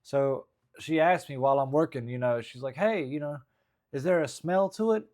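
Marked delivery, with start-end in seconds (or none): 2.8-5.0 high-pitched Jersey woman asking; Jersey accent. Acted. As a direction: put on a loud Jersey woman's voice. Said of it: "she's from Jersey".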